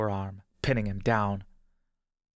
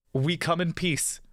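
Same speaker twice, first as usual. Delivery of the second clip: slow, higher-pitched peace offering; halting announcement; 7 semitones higher than usual. A narrator's reading. Injured brother announces peace to the stranger, slow and raised. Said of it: "in broken Sylvan he announces".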